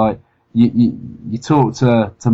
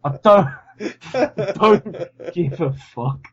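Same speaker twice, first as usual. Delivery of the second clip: mock exasperated retort; 6 semitones higher, slower than usual. Retorting to Michael McIntyre.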